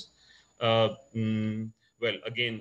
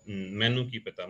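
Punjabi border-town phrasing; Punjabi dialect. Shown as a demonstration. Teacher repeating Rajpura speech, in Punjabi dialect. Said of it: "So they say".

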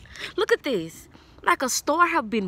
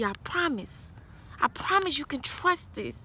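reassuring promise; 6 dB quieter than usual. Real, not acted. Reassuring Leo tenderly.

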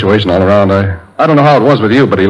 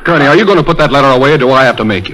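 sharp threat; 4 semitones higher, faster than usual. Acted. Man threatening the rival over reading the letter, sharp and fast. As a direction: warn him hard to put it away.

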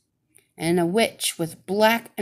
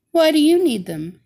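higher, louder protest; indignant protest; 7 semitones higher, 7 dB louder than usual. Acted. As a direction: push back, up and loud. Georgia protests to witch.

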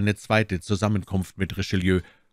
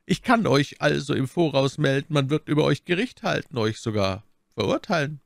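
higher, mildly indulgent voice; almost good-natured; 8 semitones higher than usual. A narrator's reading. Cardinal warning D'Artagnan of his coming trial, almost good-natured. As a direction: give the warning kindly. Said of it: "in einem fast gutmütigen Ton".

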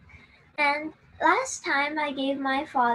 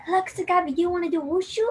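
high, louder invitation; cheerful question; 7 semitones higher, 4 dB louder, much faster than usual. Retold or imitated. Dad inviting his daughters to try wushu, bright and high. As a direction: ask the girls brightly.

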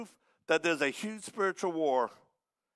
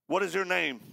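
commanding; 4 semitones higher, 4 dB louder than usual. Retold or imitated. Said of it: "I have to use authority".

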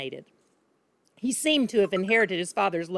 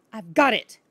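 excited; 6 dB louder than usual. Acted. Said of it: "I cried".

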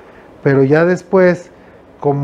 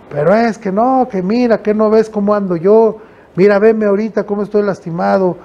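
retold angry father; 6 semitones higher than usual. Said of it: "la reacción de momento agresiva".

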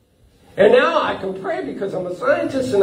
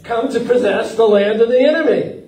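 praying aloud. Retold or imitated. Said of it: "So I was praying".

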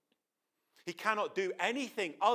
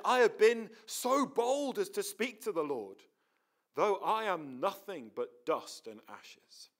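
higher, slow, humble voice; humble plea; 3 semitones higher, slower than usual. Retold or imitated. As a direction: speak like you dare not. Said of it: "he has a sense that this is crazy talk".

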